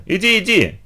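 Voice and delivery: high teasing urging; ехидный выкрик. A narrator's reading. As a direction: egg the friend on snidely. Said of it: "ехидно крикнула Литка". (ехидно подначивая)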